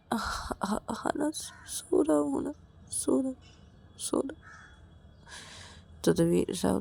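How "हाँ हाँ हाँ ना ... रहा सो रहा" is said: soft, halting, breath-only reply; timid whisper. Acted. Ravi answers Rahul's scolding, timid whisper. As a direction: whisper meekly, stumbling to obey.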